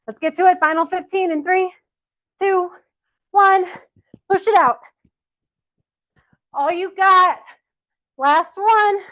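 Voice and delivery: high, loud countdown and rallying; coach's shout. Real, not acted. Coach launching the final fifteen seconds, shouting. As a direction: fire them up for the finish, shouting.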